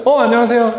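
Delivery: high, cheerful hello; lively welcoming hello; bright greeting. Shown as a demonstration. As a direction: greet them brightly and warmly. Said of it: "했잖아요".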